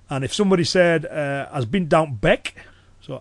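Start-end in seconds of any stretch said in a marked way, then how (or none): 1.5-2.5 slow Cumbrian quiz phrase; slow Cumbrian dialect. Shown as a demonstration. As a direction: lay out the Cumbrian dialect slowly. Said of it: "if someone in Cumbria was to say".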